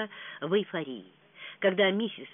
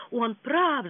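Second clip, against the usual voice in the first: a raised, higher cry; exclaiming; 7 semitones higher, 5 dB louder than usual. Acted. Perdita agreeing she must flee, mild cry. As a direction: call it out in alarm. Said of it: "закричала утрата".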